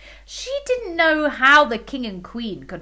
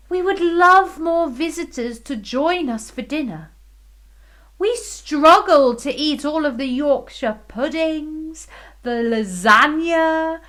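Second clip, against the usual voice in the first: queen voice; 4 semitones higher, 5 dB louder than usual. Acted. Queen inviting, high.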